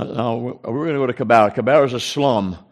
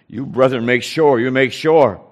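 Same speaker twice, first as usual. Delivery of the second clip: louder, emphatic phone instruction; insistent urging; 6 dB louder than usual. Retold or imitated. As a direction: press the point firmly, retelling it. Retold firm phone instruction to brethren.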